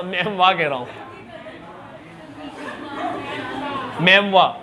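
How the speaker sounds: मेमवा with a clear "wa" ending; mock pronunciation. Shown as a demonstration. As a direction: stress the "wa" in मेमवा. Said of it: "मेम ना नहीं कह रहा". (मेमवा में वा पर ज़ोर)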